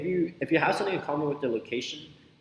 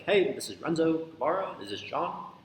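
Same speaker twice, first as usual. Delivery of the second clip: name given like a question, higher pitched; questioning intonation; 5 semitones higher than usual. Shown as a demonstration. Coach opening a sales call, questioning intonation. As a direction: introduce "Renzo Guevara" with an asking lilt. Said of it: "I say that in, like, a question format".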